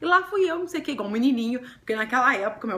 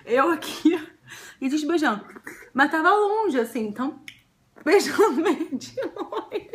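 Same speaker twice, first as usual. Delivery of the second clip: laughing through a demo of the kiss; giggling while acting it out; amused reenactment; 4 semitones higher than usual. Real, not acted. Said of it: "esse aqui é o menino".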